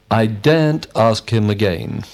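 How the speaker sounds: "daren't" stressed with emphasis. Shown as a demonstration. Student giving a negative example, stress on "daren't". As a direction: put the weight on "daren't". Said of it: "we emphasize the word not".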